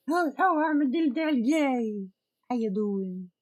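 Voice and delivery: high, fast delighted squeal; excited greeting. Real, not acted. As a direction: greet them with a happy high rush. Greeting a viewer who arrives.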